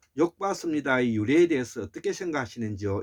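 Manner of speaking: plain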